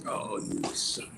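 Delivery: hushed curse under the breath; whispered oath. Real, not acted. Unvoiced muttered curse.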